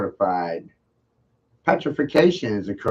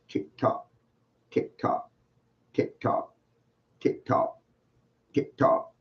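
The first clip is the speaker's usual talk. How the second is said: whispered tick tock; 3 semitones higher, 6 dB quieter than usual. Acted. To silent chat, a whispered taunting countdown. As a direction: breathe each tick tock like a clock.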